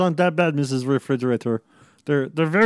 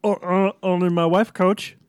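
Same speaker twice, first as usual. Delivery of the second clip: slurred, hesitant mom; drunk; 4 semitones higher, slower than usual. Acted. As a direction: play it tipsy and confused. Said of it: "Are you drunk?".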